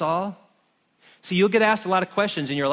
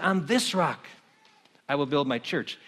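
calm Jesus; 3 semitones lower, 3 dB quieter than usual. Acted. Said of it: "I picture Jesus going".

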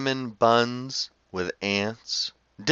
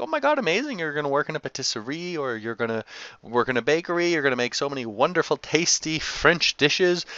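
high, excited mock mom voice; hammed-up delighted mother; gushing mom; 4 semitones higher, faster than usual. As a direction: gush like a proud French mother. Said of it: "and she's like".

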